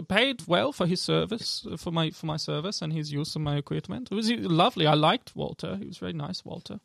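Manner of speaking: lightly voiced elf shopkeeper; elf woman. Elf alchemist lists the ingredients she got, lightly accented. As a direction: list things haltingly in her accent. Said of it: "elf woman come out".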